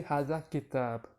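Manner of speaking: slow "kitab", stopping on the b; ending vowel dropped. Shown as a demonstration. Teacher tells learners they could just say it short, ending dropped. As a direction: say "kitab" slowly without any -un ending. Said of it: "So you could just say".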